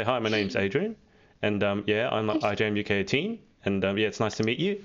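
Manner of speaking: every phrase ends going up like a question; rising ending. Shown as a demonstration. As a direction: lift "you" at the end as if unsure. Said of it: "we end every sentence going up".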